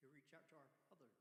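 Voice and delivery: softly intimate sermon line; hushed. Acted. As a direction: drop to a near hush. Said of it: "repeated phrase".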